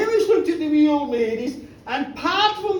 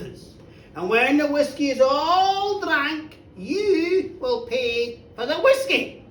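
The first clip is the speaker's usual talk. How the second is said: solemn sentencing; 3 semitones lower than usual. Acted. Old ladies pronounce the punishment.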